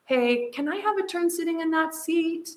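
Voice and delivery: put-on high, gentle storybook child asking politely; calm request. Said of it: "Hunter said calmly to his brother".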